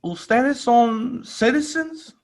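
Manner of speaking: high, slow mock officer voice; lightly voiced border agent asking; a hint of a Spanish-speaking officer; officer's Spanish. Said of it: "and she's like".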